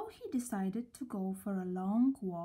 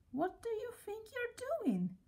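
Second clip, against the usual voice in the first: thundering; 12 semitones higher, 4 dB quieter than usual. A narrator's reading. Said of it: "he thundered".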